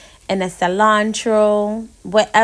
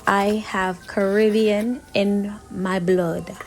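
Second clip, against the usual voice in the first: fake West Indian accent. Cook teasing viewers about Caribbean roots, mock West Indian accent. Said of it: "That's my fake West Indian accent".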